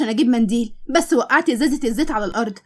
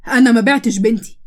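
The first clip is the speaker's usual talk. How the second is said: angry denial; 5 dB louder than usual. Acted. Father accused of selling daughter.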